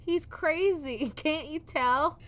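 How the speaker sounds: mock authorities voice. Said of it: "they're like".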